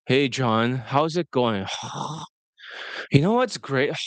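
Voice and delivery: low, deflated greeting trailing into sighs; depressed sigh. Retold or imitated. Coach imitates Marco greeting him, low with depressed sighs. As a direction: imitate a stressed man sighing out each sentence end. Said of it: "you'll sigh".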